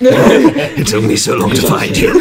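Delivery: high, slow gasping servant voice; breathless servant. Acted. Servant stumbling out of forest to master, breathless. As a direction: stagger in, out of breath and relieved. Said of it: "someone stumble out of the forest".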